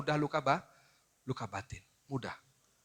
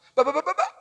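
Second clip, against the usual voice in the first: high, loud, choppy stammered syllables; imitating a stutter; 9 semitones higher, 9 dB louder than usual. Preacher mimicking his son's stammer, halting and loud. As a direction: mimic the son stuck on his first sound. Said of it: "gagap dulu".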